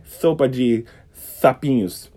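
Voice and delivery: "Sopa de sapinhos" with lisped s as th. Shown as a demonstration. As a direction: slowly lisp each s in "Sopa de sapinhos". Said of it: "como se fosse um S".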